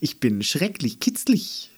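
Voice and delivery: a whispered, giggly door voice; giggling door. Acted. The ticklish door whispers to Andi with a giggle. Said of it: "die Tür kicherte".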